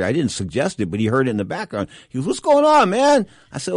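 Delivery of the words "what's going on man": much higher, louder, breezy Camacho greeting; imitating Camacho. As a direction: toss it off like the cocky Macho Man.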